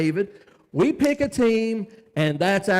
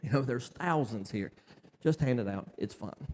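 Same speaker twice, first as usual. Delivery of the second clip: doubtful disciples; 8 semitones lower, 8 dB quieter than usual. Retold or imitated. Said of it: "they're like".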